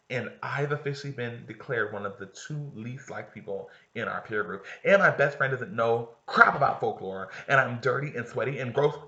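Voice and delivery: mild mock cheer over real misery; sarcastic. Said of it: "Kaylee sarcastic rant".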